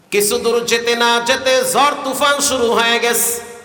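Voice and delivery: sermon storytelling. A narrator's reading. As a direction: tell the hadith in a lilting preacher's chant. Preacher chants the hadith story. (সুরেলা ওয়াজের ভঙ্গিতে কাহিনি বলা)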